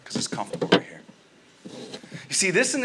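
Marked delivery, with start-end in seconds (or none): 0.0-1.0 lower, lazy brush-off trailing into a near whisper; mock lazy nah; lazy mock refusal. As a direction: play her as too comfy to bother. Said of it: "she says".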